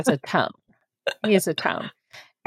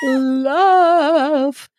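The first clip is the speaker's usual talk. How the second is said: mock loving; 9 semitones higher, 3 dB louder than usual. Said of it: "I need him to talk with".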